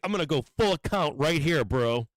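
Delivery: punchy, hammed-up bro confidence; mock bravado. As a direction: imitate a reckless all-in trader. Mocks reckless trader going all in.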